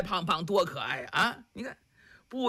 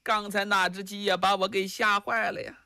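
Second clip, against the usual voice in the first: a hint of an alarmed wife calling out; lightly voiced wife fretting about the rooster; mildly spooked wife complaining; frightened wife; 3 semitones higher than usual. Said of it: "赵氏在旁边喊上了".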